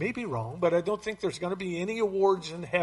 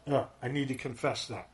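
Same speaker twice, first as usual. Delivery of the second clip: realizing; 4 semitones lower, 5 dB quieter than usual. Pretend. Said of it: "we realize".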